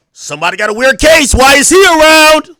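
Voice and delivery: loud, high mocking shout of a fan quote; mocking a rapper's fan. Streamer mocks a rapper's fans quoting lyrics, loud mock shout. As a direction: ham up a fan yelling lyrics. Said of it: "they talk to you in Kendrick quotes".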